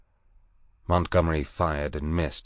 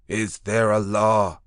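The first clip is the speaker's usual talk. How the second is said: higher, slow beast man voice; anxious beast man voice; 4 semitones higher, 5 dB louder, slower than usual. Acted. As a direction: ask it fearfully, like a beast. Man in white repeats.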